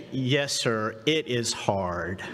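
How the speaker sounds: low, slow retold answer; lightly voiced young worker, dropping low and slow; young worker's earnest reply. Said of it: "the young voice said".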